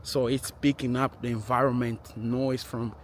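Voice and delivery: processed by camera noise reduction; muffled, noise-reduced camera audio; noise reduction artifacts. Real, not acted. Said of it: "active tracking still on and noise reduction".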